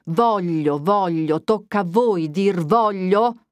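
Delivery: mild irritated scolding, slowing on the last words; a touch of a cross, impatient priest; mildly annoyed, stretched-out retort; vexed impatience. Acted. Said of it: "con tuono di corruccio e d'impazienza".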